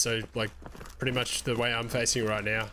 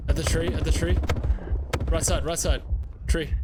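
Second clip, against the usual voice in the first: raised, urgent voice; loud callout; 4 semitones higher, 4 dB louder than usual. Real, not acted. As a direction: call it out fast to the squad.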